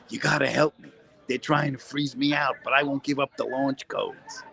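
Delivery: slowed, pleading hostage-video voice; mock hostage plea. Freezing comic to his stream, mock hostage plea. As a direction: play a captive begging on camera, half-joking. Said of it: "it's a hostage video".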